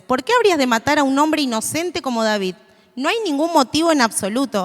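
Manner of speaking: emphatic Bible reading aloud; scripture reading. Acted. Reading Jonathan's plea to the congregation, emphatic scripture reading. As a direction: read the questions out with conviction.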